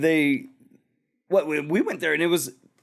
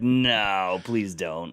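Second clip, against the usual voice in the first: pleading brain; 5 semitones lower, much slower than usual. Acted. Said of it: "but your brain's like".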